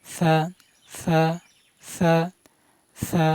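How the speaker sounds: each "সা" begun with audible escaping air; tongue tip at the teeth, blow air through "সা"; breathy release. Shown as a demonstration. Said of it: "বাতাস না বের হলে উচ্চারণ হবে না". ("সা" বাতাস ছেড়ে)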